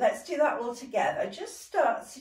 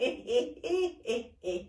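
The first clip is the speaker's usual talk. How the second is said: laughter. Shown as a demonstration. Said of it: "Keep going".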